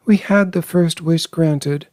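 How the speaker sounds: high, feverish urgency; pleading in a fever pitch. A narrator's reading. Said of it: "said the old woman feverishly".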